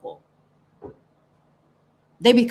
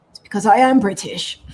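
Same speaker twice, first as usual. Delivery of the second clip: louder, mock British accent; imitated British singer; 6 dB louder than usual. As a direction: answer emphatically in imitated British English. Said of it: "Why do you sound British when you sing?".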